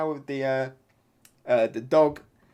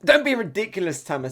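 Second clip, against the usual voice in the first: exclaimed scolding; 4 semitones higher, 4 dB louder, faster than usual. Acted. Acting a character scolding Tama.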